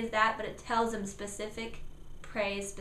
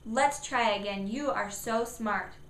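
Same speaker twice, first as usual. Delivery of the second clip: slower encouraging praise; praising parent. Shown as a demonstration. Parent encouraging child to try again. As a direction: build the child up. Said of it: "praise number three".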